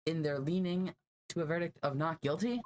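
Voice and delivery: high, breathless and theatrical; dramatic. Acted. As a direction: overdo the amazed lawyer. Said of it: "how dramatic this guy is".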